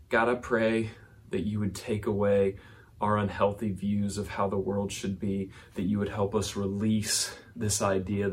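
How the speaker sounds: hushed prayer for the congregation. Real, not acted. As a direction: pray gently and humbly. Closing prayer.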